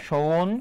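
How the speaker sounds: সৌন as a separate drawn syllable, "shoun"; syllable-by-syllable pronunciation. Shown as a demonstration. Teacher breaks the word up for students, সৌন said separately. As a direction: sound out সৌন with its gliding vowel. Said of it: "উচ্চারণটা কি হবে".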